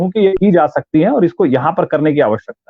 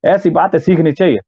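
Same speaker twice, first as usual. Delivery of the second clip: Uttarakhandi accent. Shown as a demonstration. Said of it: "Uttarakhand का कोई व्यक्ति बोला हो".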